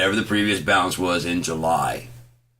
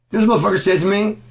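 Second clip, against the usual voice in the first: outraged yell; 13 semitones higher, 6 dB louder, faster than usual. Real, not acted. Rant building.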